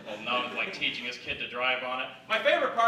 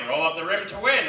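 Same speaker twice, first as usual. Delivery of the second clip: ad announcer; 4 semitones higher than usual. Retold or imitated. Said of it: "the announcer is just like".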